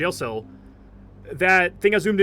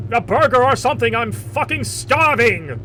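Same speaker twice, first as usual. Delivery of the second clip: mock dragon voice; 4 semitones higher, 7 dB louder, slower than usual. Joke drops the god act.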